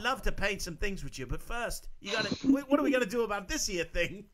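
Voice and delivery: A singer's voice. Retold or imitated. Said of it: "He's gonna be like".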